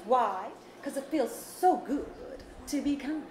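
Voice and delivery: slow, sing-song moral of the story; Auntie B voice. Acted. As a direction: land the refrain slowly and sweetly. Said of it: "In your Auntie B voice?".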